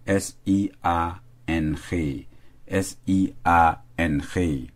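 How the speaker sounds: slow, letter by letter: S I A N G; spelled out letter by letter. Shown as a demonstration. Teacher spelling the word for students, letter by letter. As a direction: spell "S I A N G" out slowly, one letter at a time.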